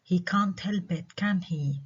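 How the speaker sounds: slow statement, then "can he" falling; falling tag question. Shown as a demonstration. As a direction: drop "can he" to force agreement. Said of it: "برضو على can he".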